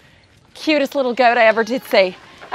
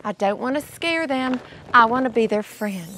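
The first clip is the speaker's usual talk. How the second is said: indoor voice; 5 dB quieter than usual. Real, not acted. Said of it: "speak with her indoor voice".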